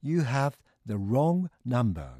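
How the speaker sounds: slow, carefully spaced English model; deliberate, word-by-word teaching delivery; model phrase. Shown as a demonstration. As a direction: present the phrase slowly for learners. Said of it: "今日の表現は".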